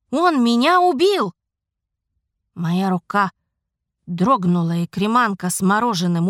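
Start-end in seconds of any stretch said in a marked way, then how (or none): 0.1-1.3 alarmed outburst. Acted. Ghost's shocking revelation.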